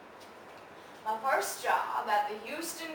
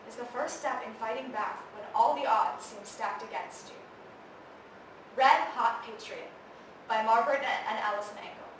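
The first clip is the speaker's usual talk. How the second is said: measured, earnest introduction; formal narration; 4 dB quieter than usual. Acted. Narrator introducing a play about Molly Ivins, formal narration. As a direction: present the subject with quiet gravity.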